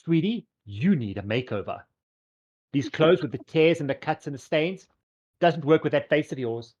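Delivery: fashion diva passing judgement; lightly voiced, lilting boutique owner; Fabulous. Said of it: "walks across to Andera and goes".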